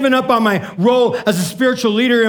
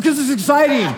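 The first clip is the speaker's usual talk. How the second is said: laughing; 3 semitones higher than usual. Retold or imitated. Laughing reply to yelling question.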